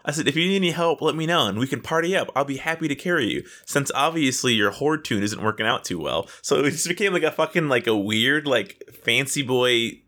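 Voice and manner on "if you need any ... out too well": higher, quick mock-helpful offer; nicely sassy. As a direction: sugar the dig with fake politeness. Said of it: "We were just nicely sassing the other person".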